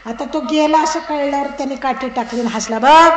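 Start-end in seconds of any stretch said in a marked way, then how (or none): 2.8-3.1 loud, raised "look!"; mock-gloating call; triumphant exclamation. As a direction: burst out proudly, as if the trick worked. Husband crowing after the trick worked.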